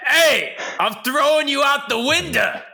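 overdone mock Boston gangster; bad Boston accent, pushed way up. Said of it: "like, The Departed?".

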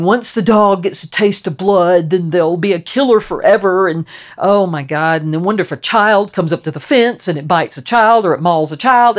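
loud, fast-tumbling alarm; mock panicked worrying. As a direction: imitate a frantic worrier spiralling into worst cases. Retelling freaked-out friend's worried outburst.

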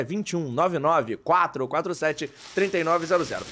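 slow, over enunciating each digit; slow and clear. Shown as a demonstration. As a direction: spell out the number slowly for dictation. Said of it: "Vou falar devagar pra você anotar".

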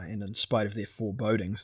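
ordinary delivery

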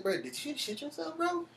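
high and soft, taunting; teasing high voice. Retold or imitated. Repeating the taunt to the scared cousin, high and soft. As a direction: lift it up high and needle him.

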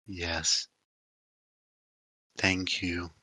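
Tolok voice. Acted. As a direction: rumble it out low like a giant spirit answering. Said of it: "That's your Tolok vo".

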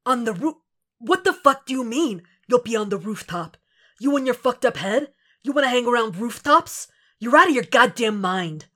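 a partner protesting a reckless plan, angry disbelief. Acted. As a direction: push back hard, incredulous. Frank objects to rooftop plan.

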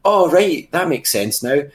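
high, loud "oh right" realisation; sudden realisation. Retold or imitated. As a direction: act out the penny dropping. Acted realisation of a confused viewer.

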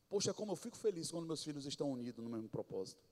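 put-on soft, quick, as God pleased with His children; like a loving father smiling down; voicing God tenderly. Shown as a demonstration. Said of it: "A entonação de que agora eu vou te dar a dica, de que fosse Deus do céu".

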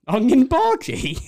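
giggling through the words; laughing. Real, not acted. Mishearing game, laughing.

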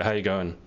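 lazy "How you going?" as one word; Aussie "How you going?" through still lips; without moving mouth. Shown as a demonstration. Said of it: "say it without moving my mouth".

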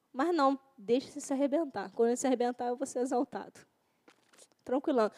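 a hint of smug envy, hushed; sly scheming. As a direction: savour the rival's fall under your breath. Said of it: "imagined envious person scheming".

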